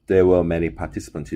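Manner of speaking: "There were many participants" slowly, British-style with silent R; dropped R. Shown as a demonstration. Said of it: "이렇게 아리 발음이 죽어요".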